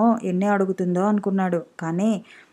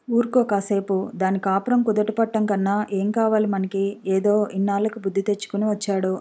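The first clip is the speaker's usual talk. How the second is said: usual speaking voice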